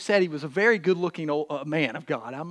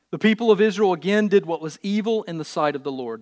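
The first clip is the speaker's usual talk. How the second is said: emphatic, projected Bible reading; scripture reading; 3 semitones higher, 5 dB louder than usual. Acted. Preacher to congregation, scripture reading. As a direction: read the verse out to the congregation.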